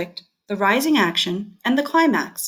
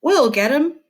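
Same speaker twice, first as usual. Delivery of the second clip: eager townsfolk; 10 semitones higher, 4 dB louder than usual. Acted. Armed townsfolk rushing in.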